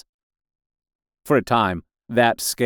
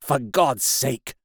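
drawn-out, higher plea without volume; terrified plea; 4 semitones higher, slower than usual. A narrator's reading. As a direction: beg him, afraid of being overheard. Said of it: "in a terror lest the Martians should hear us".

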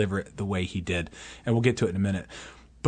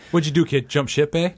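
mock Canadian accent; 2 semitones higher than usual. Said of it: "you can really hear the Canadian".

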